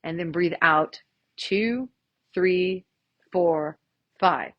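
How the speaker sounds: slow guided counting; calm instructor count; counting breaths. Shown as a demonstration. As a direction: lead the breathing, unhurried. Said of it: "take a deep breath in".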